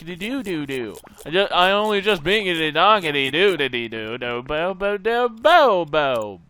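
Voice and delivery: singsong nonsense swooping up high and back down; goofy celebratory babble. Real, not acted. Player giddy after fixing it, goofy singsong babble. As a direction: let the words melt into swooping silly syllables.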